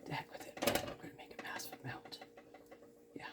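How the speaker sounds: very soft, whispered aside; muttered aside. Real, not acted. Cook to herself while adding cheese, muttered aside. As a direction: mutter it under your breath.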